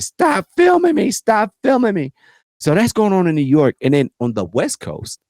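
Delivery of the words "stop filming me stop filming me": mock Karen. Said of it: "She said".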